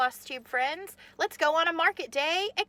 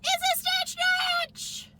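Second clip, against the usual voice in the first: much higher, louder excited cry; excited scream; 5 dB louder than usual. Real, not acted. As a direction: shout the name with delight. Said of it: "Sorry if I'm screaming".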